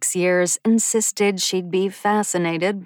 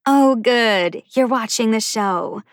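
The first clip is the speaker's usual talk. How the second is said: bright, louder burst of excitement; excited exclaim; 4 semitones higher, 4 dB louder than usual. A narrator's reading. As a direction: bounce in thrilled. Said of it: "bounced into the room and exclaimed".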